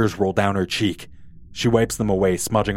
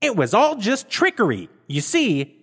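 put-on higher, know-it-all girl; Velma voice; 11 semitones higher than usual. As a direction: lecture them like a clever girl.

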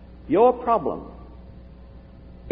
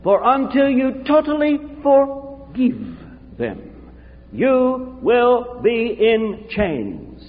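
put-on slow, high Romanian-accented pronouncement; 4 semitones higher, slower than usual. Romanian friend urging him to forgive, in a slow accent. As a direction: imitate a Romanian friend's solemn, drawn-out charge. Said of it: "said in his Romanian accent".

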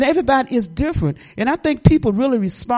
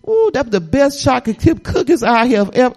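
excited praise; 2 semitones higher, 5 dB louder than usual. Retold or imitated. Enthusing to neighbour about cookies.

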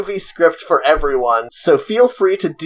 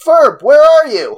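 put-on kid voice; 8 semitones higher, 5 dB louder than usual. Reading Phineas's line aloud.

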